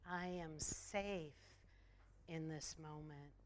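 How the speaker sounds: slow affirmation. Shown as a demonstration. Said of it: "Affirm that with me".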